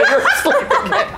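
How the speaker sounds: high and giggling little creature; gleeful tiny gremlin; high creature voice, laughing. Acted.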